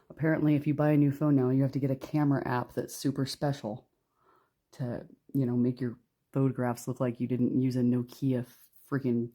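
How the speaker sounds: dry, grudging sarcasm; snarky. Real, not acted. Reader griping about needing a camera app, snarky. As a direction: grumble it with open snark. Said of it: "Do I sound snarky? Yeah, that's 'cause I am".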